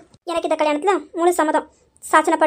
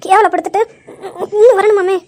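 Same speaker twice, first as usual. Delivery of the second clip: laughing scold; 3 dB louder than usual. Acted. Embarrassed bride scolds groom.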